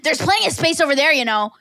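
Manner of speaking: lightly voiced, dismissive bench hog with "plenty" leaned on; snotty lady. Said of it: "And she's like".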